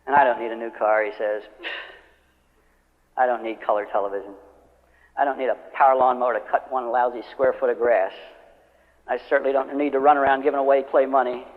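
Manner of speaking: grumbling naysayer. Retold or imitated. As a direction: grumble it like a jealous coworker. Voicing a grumbling negative guy.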